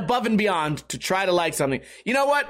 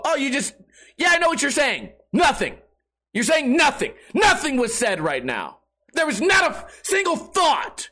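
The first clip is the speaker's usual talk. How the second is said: mock exasperated rant; 6 semitones higher than usual. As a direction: blast him for saying nothing. Mock reply to rambler.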